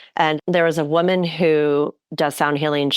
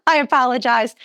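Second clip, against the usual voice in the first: laughing; 8 semitones higher than usual. Real, not acted. Host giggling at her own joke.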